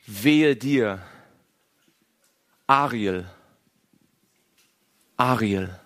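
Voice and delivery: low, near-tearful plea. Acted. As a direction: lament it, almost weeping. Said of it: "fast mit weinerlicher Stimme".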